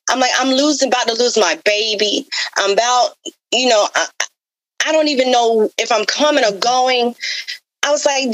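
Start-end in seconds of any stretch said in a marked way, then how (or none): 0.4-7.1 a mild mock scream of despair, pitched up; retold anguished plea. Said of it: "yelling and screaming at him".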